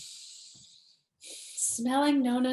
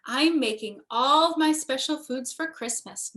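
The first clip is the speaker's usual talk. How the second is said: a touch of pride, a bit louder; proud; 4 dB louder than usual. Acted. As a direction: boast gently about her cooking. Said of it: "Nona said proudly".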